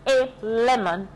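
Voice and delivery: lemon slow, lɛmɔn, clear n; lemon slowly. Shown as a demonstration. Teacher modeling lemon for students, slow. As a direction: stretch out lemon. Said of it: "la prononciation, c'est lemon".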